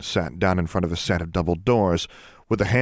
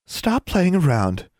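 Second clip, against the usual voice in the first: high, slow, stern scolding; stern custodian; 11 semitones higher, slower than usual. Acted. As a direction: scold a child slowly.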